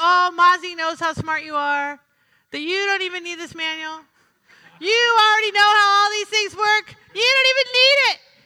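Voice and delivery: acted, mock-joking jokey tone. Telling how you answered Scott back then, retelling a joking remark. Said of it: "I jokingly say".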